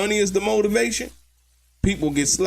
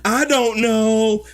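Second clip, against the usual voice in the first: slow mock witness; 5 dB louder, slower than usual. Witness answer reenacted.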